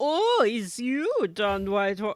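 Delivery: put-on terrible, clumsy German accent, laid on. Recounting what Jaeger said on seeing Don Whitehorse, in a terrible German accent. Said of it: "that was a terrible German accent".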